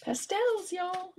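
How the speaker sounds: sudden high squeal of delight on "Pastels"; light up as the idea hits you; excited realization. Real, not acted. Crafter spotting her pastel washi tape, excited.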